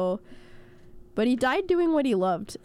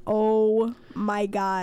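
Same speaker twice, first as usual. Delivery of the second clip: slow drawn-out dread; retold dread; much slower than usual. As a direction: let it sink in slowly. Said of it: "and I was like".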